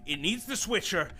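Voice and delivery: rising, urgent plea; pleading. Acted. Davenport pleading with the villain for both their lives, urgent. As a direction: beg him to see reason.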